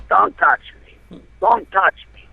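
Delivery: high mock yell of a dazed grandma; retold scream. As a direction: cry out don't touch me, pushing him off. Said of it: "she's screaming at me".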